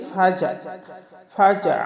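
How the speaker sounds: "ফাজা" stopped on a plain a; ain turned into hamza. Shown as a demonstration. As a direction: say "ফাজা" with no throat sound at the end. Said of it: "আইনকে হামজা বানিয়ে বলি". ("ফাজা"-য় আইনের বদলে হামজা)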